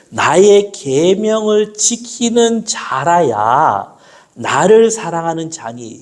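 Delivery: scripture reading. Acted. Reads John 14:21.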